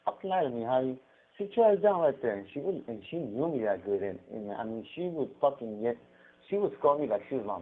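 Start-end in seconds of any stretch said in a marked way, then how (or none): 0.1-2.3 mock scolding boss. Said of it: "He goes".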